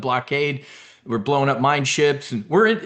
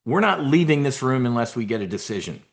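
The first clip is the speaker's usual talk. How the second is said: mafia don; 4 semitones higher than usual. Pretend. A mafia boss telling negotiators he's done talking, mildly raised. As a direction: lay down the law like a Jersey don. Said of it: "That's how a don would talk".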